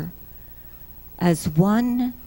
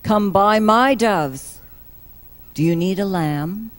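mildly raised market-seller call; seller's shout; 4 dB louder than usual. Acted. Temple seller hawking doves and lambs, mild acted shout. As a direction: call out the wares, louder on the first offer. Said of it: "Before the sellers start shouting out".

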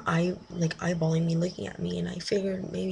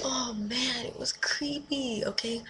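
creeped-out hush; 5 semitones higher, 3 dB quieter than usual. Real, not acted. Creeped out by staring stranger.

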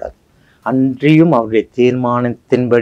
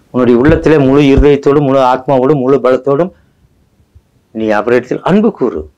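fervent urging; 4 semitones higher than usual. Acted. Fervent exhortation.

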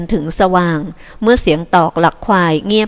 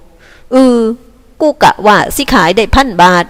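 weak dejected voice; 3 semitones higher, 4 dB louder, slower than usual. Acted. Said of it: "สีโหพูดเสียงอ่อยๆ".

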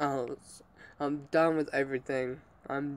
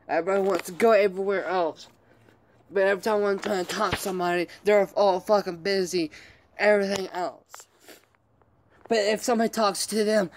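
pissed off; 4 semitones higher, faster than usual. Real, not acted. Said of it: "I'm fucking pissed off".

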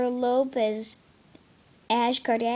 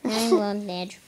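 flat robotic singing voice; 2 semitones lower, slower than usual. Pretend. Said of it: "I'm supposed to sound like a robot".

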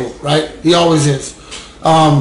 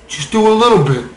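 pitched up a little, pressing temptation; insistent inner voice; 3 semitones higher than usual. Acted. Addict's inner voice finally getting through, insistent. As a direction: push it as a nagging urge, a touch higher. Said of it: "I finally hear it loud enough".

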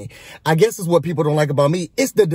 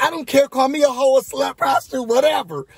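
higher-pitched imitation of a defiant brush-off; mock dismissive retort; 6 semitones higher than usual. Housemate heading upstairs brushes off the news, mock dismissive. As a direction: toss it off high, imitating her indifference.

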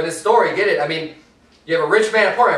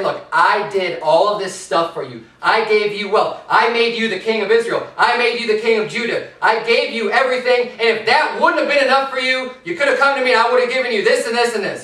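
pleading God; 4 semitones higher than usual. Retold or imitated. God's voice paraphrased.

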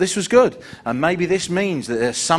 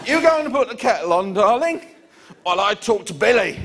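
falsely sweet; 9 semitones higher than usual. Retold or imitated. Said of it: "And I went".

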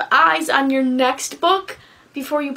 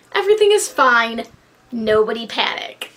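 sarcastic; 3 semitones lower than usual. Acted. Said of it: "the sarcasm".

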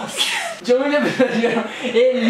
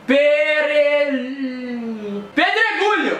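shouting; 3 semitones higher, much slower than usual. Real, not acted. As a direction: yell it over the music. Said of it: "tava gritando".

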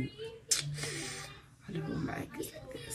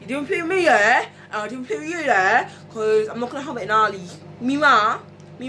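playful put-on Geordie; Geordie accent; 4 semitones higher than usual. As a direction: wind someone up in mock Geordie. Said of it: "I've been doing the Geordie accent".

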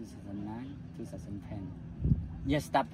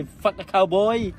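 police curse; 8 semitones higher, 8 dB louder, slower than usual. Retold or imitated. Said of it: "many time police say".

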